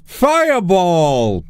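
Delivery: cute anime streamer. Acted. Casting a spell in-game.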